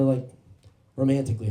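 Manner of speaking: ordinary talk, nothing marked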